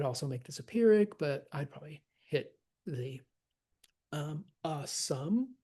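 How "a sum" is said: "a" light, "sum" stressed and drawn out; scanned iambic foot. Shown as a demonstration. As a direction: slowly lean on "sum". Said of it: "That's how we say summers".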